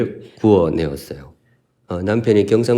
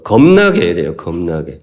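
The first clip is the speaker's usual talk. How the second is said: Jeolla dialect; 5 semitones lower than usual. Shown as a demonstration. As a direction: savor the Jeolla word 겁나게. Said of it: "전라도 말로는".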